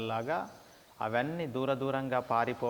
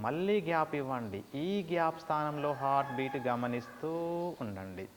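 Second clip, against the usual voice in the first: measured meditation guidance with long pauses; guided meditation; 3 dB quieter than usual. Shown as a demonstration. Teacher guides students to pause the breath, meditation voice. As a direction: pace each instruction to a breath, stretching the Oms.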